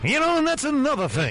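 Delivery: very high-pitched put-on voice. Repeating a line on the show, done in a Cameron from Ferris Bueller voice. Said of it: "I thought that is Cameron in Ferris Bueller".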